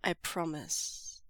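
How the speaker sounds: slow, soft and low promise; quiet earnest avowal; solemn vow. Acted. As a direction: vow it gravely. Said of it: "Lan Zhan avows".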